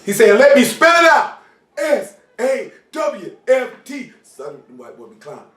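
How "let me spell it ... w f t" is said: put-on Italian accent spelling. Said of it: "like my man say".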